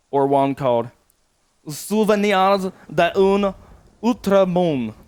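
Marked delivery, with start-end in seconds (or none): 1.7-4.9 slow, loud, higher fake French that drifts German; a fake French accent that lands half German; botched French accent. Shown as a demonstration. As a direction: Souvenirs d'un Outre-Monde mangled with grand French airs. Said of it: "sounds more German than French the way I say it".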